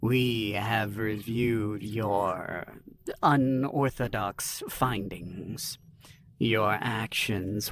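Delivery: slow, hushed, grave council voice; subdued. Acted. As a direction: speak low and slow, fading to a whisper. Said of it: "her voice subdued".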